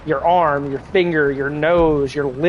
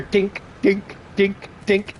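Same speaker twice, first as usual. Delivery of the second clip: light repeated dink sounds; imitated tank thuds; 4 semitones higher, much slower than usual. Retelling the fish hitting the bowl, tapping dinks. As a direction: tap out the fish hitting glass. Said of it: "all you hear is".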